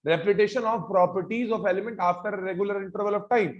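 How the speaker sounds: very slow, every word separated; teacher reciting a definition for the class to memorise; slow dictation. Shown as a demonstration. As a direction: say it slowly so the class can repeat after you. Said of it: "मेरे साथ साथ याद करो".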